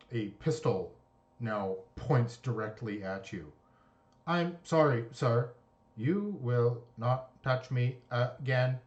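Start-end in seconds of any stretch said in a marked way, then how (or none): 4.3-8.8 polite robot warning, lightly voiced. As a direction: warn like a calm security robot. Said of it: "her robotic voice".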